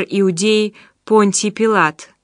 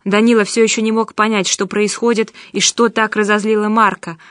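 plain reading voice

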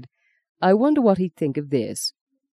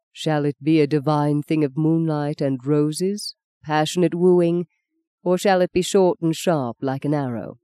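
mock declaiming. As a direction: recite it like a stage lover, hand on heart. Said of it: "he declaimed, hand on heart".

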